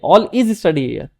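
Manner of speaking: All is study here said very slowly as the mistake; drawn out to show the error; teacher slowly showing the sentence not to say; slow wrong example. Shown as a demonstration. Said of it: "यहाँ पे ये नहीं बोलेंगे".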